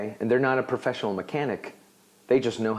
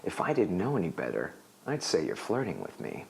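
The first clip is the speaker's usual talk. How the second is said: playful sarcasm; 5 semitones lower, 8 dB quieter than usual. Shown as a demonstration. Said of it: "you're being playful".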